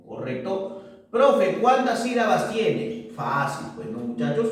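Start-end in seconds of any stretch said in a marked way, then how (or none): 1.1-3.1 lightly voiced pupil, higher pitch; student asking. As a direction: put a pupil's question a little higher. Teacher voices a student's question. (voz ligeramente aguda de alumno que pregunta)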